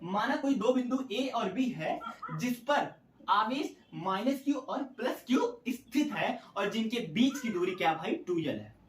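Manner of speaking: slow, deliberate dictation, falling at the end; slow, easy dictation. Real, not acted. Teacher reading out the derivation's opening to students, slowly. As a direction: take it slowly, phrase by phrase. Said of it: "आराम से बोलते हैं".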